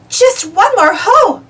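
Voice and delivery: high, slow, drawn-out call. A narrator's reading. Uniqua cheering the team on a heave, drawn-out call. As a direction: stretch the call across the deck. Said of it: "called Uniqua".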